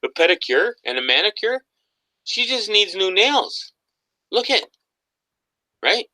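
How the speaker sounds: high, laughing through words. Real, not acted. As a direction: giggle at own word slip. Laughing at his own slip.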